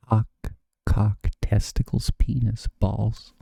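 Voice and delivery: blurted out loud. Real, not acted. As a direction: call the rude words out. Reading rude words for chat.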